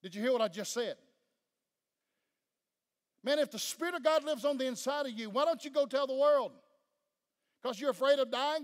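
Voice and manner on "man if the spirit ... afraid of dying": preaching at full force. Real, not acted. Preacher exhorting congregation.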